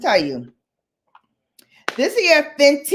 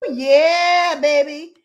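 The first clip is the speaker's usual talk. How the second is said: retold hype; 5 semitones higher than usual. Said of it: "and I was like".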